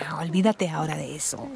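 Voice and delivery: hushed whisper behind the door; urgent eavesdropping whisper. Real, not acted. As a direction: whisper so nobody inside hears.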